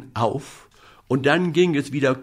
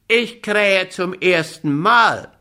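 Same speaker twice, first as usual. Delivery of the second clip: rooster calling; 6 semitones higher, 4 dB louder than usual. Acted. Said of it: "rief der goldene Hahn herunter".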